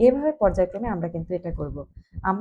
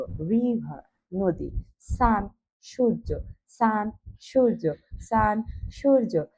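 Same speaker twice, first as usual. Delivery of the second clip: slow drill; slower than usual. Shown as a demonstration. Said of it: "উচ্চ স্বরে উচ্চারণ করো".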